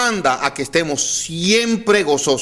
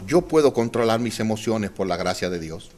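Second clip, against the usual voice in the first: softer, lower, spoken as an example to repeat; quiet model line; 8 semitones lower, 7 dB quieter than usual. Shown as a demonstration. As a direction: say it gently for them to copy. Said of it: "Usted sería tan amable de decirme". (frase modelo dicha en voz baja)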